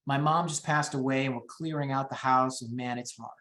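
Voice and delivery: lightly acted grief, trailing down low and quiet; mock tearful. Seller clearing out late mother's house, mildly tearful. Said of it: "if somebody is tearful".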